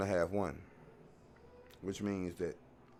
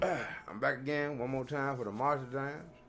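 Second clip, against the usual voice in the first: talking around a cigar; words mumbled past a cigar; cigar in mouth; 5 semitones higher than usual. Real, not acted. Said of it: "I had my cigar in my mouth".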